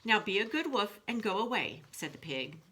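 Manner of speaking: lively storybook read-aloud to the class; reading to children. A narrator's reading. Teacher reading Wolf to her class in a storybook voice. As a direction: tell the story to the kids with expression.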